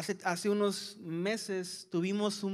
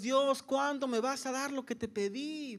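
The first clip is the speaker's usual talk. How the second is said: anxious pleading; 4 semitones higher than usual. Retold or imitated. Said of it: "estamos preocupados y cargados".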